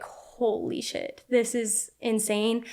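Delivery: whispered, slow and soft in awe; hushed disbelief through the pain; breathy whisper. Retold or imitated. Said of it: "And I was like".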